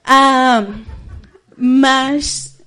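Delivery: usual speaking voice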